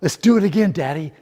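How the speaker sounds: put-on a light child's voice begging to ride again; excited child. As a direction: beg like a kid at the fair. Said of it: "those words that have terrified many a father".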